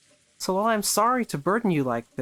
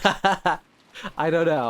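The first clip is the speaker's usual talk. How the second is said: laughing; much slower than usual. Real, not acted. Laughing reply at the table.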